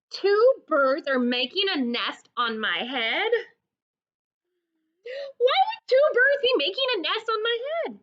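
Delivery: high, fast, whining elephant; upset Gerald. Acted. Gerald asks why birds nest on his head, high and whiny. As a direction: Gerald near tears at the news.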